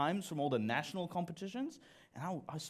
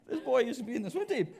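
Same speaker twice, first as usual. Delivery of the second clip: mock confused audience; 10 semitones higher, 3 dB louder, faster than usual. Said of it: "I can see confused faces".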